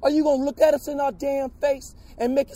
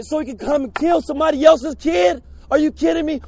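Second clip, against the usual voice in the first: angry shout. Real, not acted. Protester shouting at officials.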